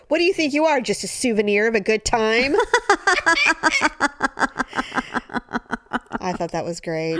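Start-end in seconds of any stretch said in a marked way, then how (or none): 0.1-2.5 high, exasperated mom voice; mock scolding mom. Mom scolding kids, retold. 2.6-6.1 bursting out laughing; high laugh. Real, not acted. Big laugh after joke.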